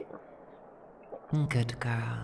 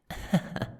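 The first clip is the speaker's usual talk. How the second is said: menacing chuckle. Acted. Toying with the captured thief.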